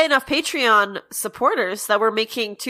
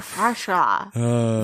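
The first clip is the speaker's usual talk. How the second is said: deep creature voice; 11 semitones lower, slower than usual. Pretend. Low creature voice.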